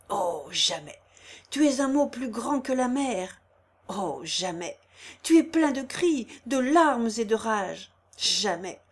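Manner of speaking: forceful fire-and-brimstone sermon; menacing, swelling the words; preaching. Acted. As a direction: declaim it like an old priest threatening sinners. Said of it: "d'une voix forte, s'animant comme s'il eût prêché".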